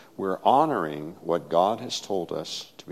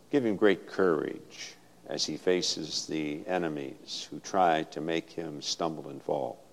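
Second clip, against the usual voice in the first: prayer. Acted. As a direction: pray it over him with feeling. Prays over the baptized boy.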